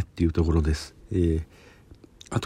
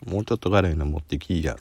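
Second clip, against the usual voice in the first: ordinary, unforced Kansai dialect. Shown as a demonstration. Taster asks for something spicier, everyday Kansai dialect. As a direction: toss out a casual Kansai-dialect demand. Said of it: "すごい普通の関西弁で喋っちゃいました".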